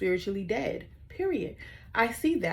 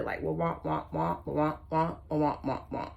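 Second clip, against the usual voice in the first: mock wah wah noise; 2 semitones lower than usual. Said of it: "went in one ear and out the other".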